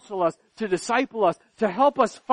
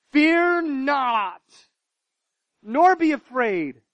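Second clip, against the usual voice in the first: preaching at full force. Acted. Preacher closing with Isaiah to the church, full force. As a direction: declaim the prophet's words boldly.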